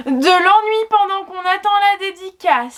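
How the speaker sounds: trailer voice. Acted. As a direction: announce it like a dramatic trailer. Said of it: "voix de bande-annonce".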